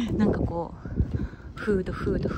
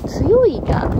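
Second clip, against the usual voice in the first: Nagoya dialect; 8 semitones higher, 8 dB louder than usual. Shown as a demonstration. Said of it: "強いがとは言わないね".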